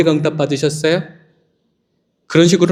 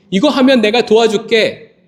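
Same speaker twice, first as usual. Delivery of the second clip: higher, gently persuading; mock coaxing offer; 6 semitones higher than usual. Pastor voicing someone coaxing a reluctant person with help, higher. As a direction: sweeten the deal, a bit higher.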